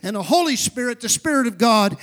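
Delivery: driving, insistent sermon delivery; emphatic preaching. Real, not acted. Preacher teaching the congregation who God is, emphatic preaching. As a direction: preach it out, pressing each phrase. Preaches on God's name and Spirit.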